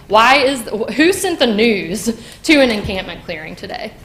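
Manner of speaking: who sent them, real outrage at council; outraged question. Real, not acted. Outraged at news crew at eviction.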